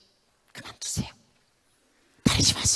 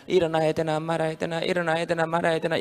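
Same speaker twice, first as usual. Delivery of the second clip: drowsy, undecided mumble, repeated; half-asleep dithering. Retold or imitated. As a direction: dither like someone stuck in bed. Acted dithering half-awake. (이불 속에서 망설이는 졸린 목소리)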